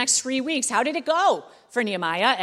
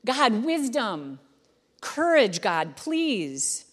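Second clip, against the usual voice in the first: desperate quick prayer; 2 semitones higher, much slower than usual. Retold or imitated. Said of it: "I imagine it was just like".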